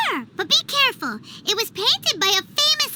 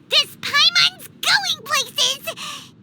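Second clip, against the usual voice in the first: very slow, drawn-out proud proclamation; grand boast; 4 semitones higher, much slower than usual. Acted. Paimon daydreaming of fame, grandly slow. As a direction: savour every word.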